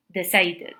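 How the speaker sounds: "decided" with a clear "id" ending; three syllables in "decided", ending in id. Shown as a demonstration. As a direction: sound the vowel before the final D in "decided". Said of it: "you pronounce it like id".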